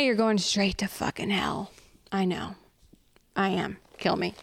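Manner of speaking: whisper. Acted. Whispered self-damnation aside.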